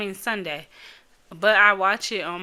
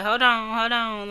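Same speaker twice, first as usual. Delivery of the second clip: lachend "Hold on, hold on" tijdens een massage, kietelig en wat hoger; ticklish giggle; 2 semitones higher than usual. Retold or imitated. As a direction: giechel het uit alsof iemand je kietelt. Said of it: "I just be like".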